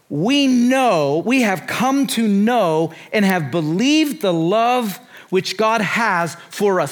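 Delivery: slow, weighty scripture reading. Acted. Preacher reading First John to the congregation, slow and emphatic. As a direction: read the verse deliberately, drawing out key words. Reads scripture aloud slowly.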